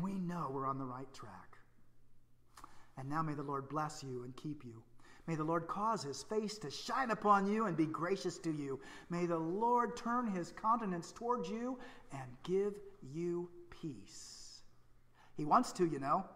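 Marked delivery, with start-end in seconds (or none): 3.0-14.6 slow, solemn blessing voice; calm priestly blessing; benediction. Acted. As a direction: bless them gently from the pulpit. Pronounces the benediction.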